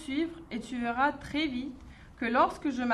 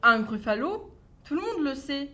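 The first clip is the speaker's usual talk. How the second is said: a touch of a bright, cheeky mouse; lightly voiced clever mouse. Mouse bluffing the snake about a gruffalo, light cheeky voice. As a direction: play the little mouse bluffing sweetly.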